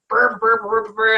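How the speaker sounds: imitated ranting as "burr burr"; mock their tirade with a run of burrs; mocking babble. Mimics relatives' angry tirade as noise.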